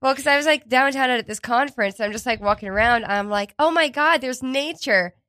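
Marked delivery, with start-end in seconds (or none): 3.6-5.1 high, wide-eyed exclamation; gushing at the discovery; mock delight. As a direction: retell it with giddy, higher-pitched wonder. Retells own delight at park.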